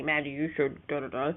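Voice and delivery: lightly voiced grumpy old man; grandpa voice. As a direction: mildly imitate a grumpy grandfather. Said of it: "There's grandpa voice again".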